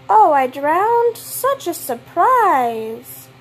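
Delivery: slow, dry mock surprise; drawn-out sarcastic oh. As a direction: fake shock at the obvious. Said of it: "enough with the sarcasm".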